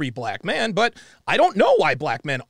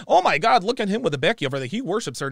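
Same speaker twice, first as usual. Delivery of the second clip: mocking quote; 3 semitones higher, faster than usual. Mocking what women say.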